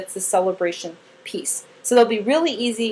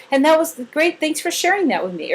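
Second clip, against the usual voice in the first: put-on higher, bright thanks to the child; upbeat grateful praise; warm praise; 5 semitones higher than usual. Shown as a demonstration. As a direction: praise her for sharing. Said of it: "You say".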